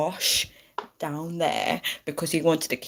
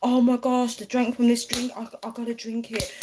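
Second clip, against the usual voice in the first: obsessed fan; 5 semitones higher than usual. Acted. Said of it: "people are so obsessed with celebrities".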